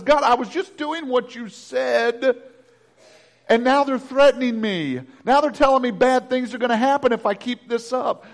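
gentle mock plea to God; crying out. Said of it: "Jeremiah cries out and says".

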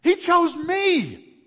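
slow, loud, high with stress on He; emphatic proclamation. Real, not acted. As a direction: drag out each word in wonder. Repeated climax.

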